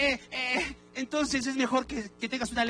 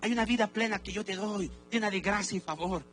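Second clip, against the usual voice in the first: reassuring Lord; 4 dB quieter than usual. Retold or imitated. The Lord speaking to a sinner, softly reassuring. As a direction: comfort a weary child. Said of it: "Lo que el Señor te está diciendo es".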